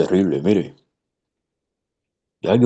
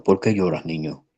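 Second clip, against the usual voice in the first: sweet voice; 3 semitones lower than usual. Retold or imitated. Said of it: "con voz dulce le dijo".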